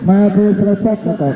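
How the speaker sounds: slowed-down demo of the phrase; slow, deliberate repeat. Shown as a demonstration. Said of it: "repeated phrase, second take".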